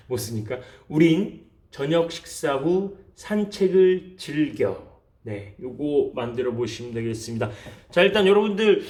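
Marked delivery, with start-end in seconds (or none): 0.9-4.9 slow, spaced-out sentence reading. Shown as a demonstration. Teacher reads the practice sentence to viewers, slowly and clearly. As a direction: read it slowly for learners to write. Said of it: "다시 한번 읽어드릴게요".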